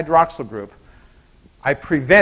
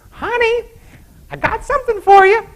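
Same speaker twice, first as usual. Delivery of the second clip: high, sweet call of a wife to her husband; sweetly calling out to hubby, much higher; sing-song wife; 4 dB louder than usual. Acted.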